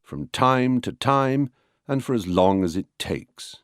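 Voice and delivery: slow beats on "time", "long" and "takes"; stress-timed rhythm. Shown as a demonstration. Lecturer illustrating stress-timed English, natural accents on "time", "long", "takes". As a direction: push "time", "long", "takes", glide over the small words. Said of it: "a stress-timed language".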